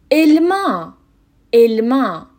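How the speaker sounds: "الما" slowly as el-MAH, with eh first; closed E example. Shown as a demonstration. Teacher giving an example word, "الما" with a clear closed eh. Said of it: "توی کلمهٔ اول یعنی الما".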